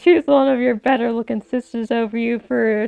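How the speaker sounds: loud taunting jeer; mocking. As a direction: sneer at her crying. Mocking a crying nun.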